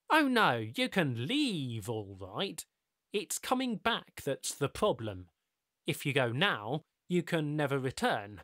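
lightly voiced smooth stranger; measured, knowing and patient; calm mysterious host. Ricardo voiced in the story.

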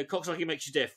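throwaway hurried mumble; quick mumble. Shown as a demonstration. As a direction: rattle it off indistinctly. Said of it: "really quickly".

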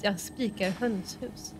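Swedish with a slight skånsk lilt; Scanian accent. Real, not acted. Streamer joking in mock Swedish to chat, Scanian accent. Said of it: "I got an accent when I said that".

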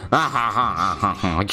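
descending villain cackle; evil laugh. Pretend. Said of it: "That's my evil laugh".

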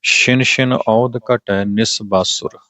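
slow reading that comes to rest on ਬਾਸੁਰ; pause after ਬਾਸੁਰ. Shown as a demonstration. Teacher showing the pause, slow line halting after ਬਾਸੁਰ. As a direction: read slowly and stop after ਬਾਸੁਰ. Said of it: "ਇੱਥੇ ਵਿਸ਼ਰਾਮ".

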